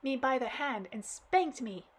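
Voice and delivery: acted child crying to granddad; blubbering girl. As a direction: blurt it out blubbering. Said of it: "all the while laminating".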